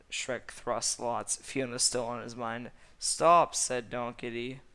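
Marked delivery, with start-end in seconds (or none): 3.0-3.6 sharp loud high cry; a sudden loud command; shouted stop. Acted. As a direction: yell it to halt everything. Donkey calls out.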